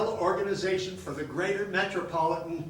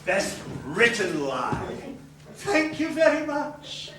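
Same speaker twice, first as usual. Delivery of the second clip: mock acceptance; 6 semitones higher, 7 dB louder, slower than usual. Acting out award acceptance.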